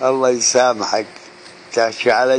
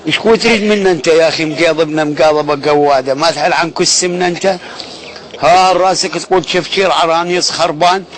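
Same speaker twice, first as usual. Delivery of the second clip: loud, raised-voice insults; angry yell; 2 semitones higher, 3 dB louder than usual. Acted. Telling the Turkey-based rival to back off, angrily shouting. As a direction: hurl each line at him.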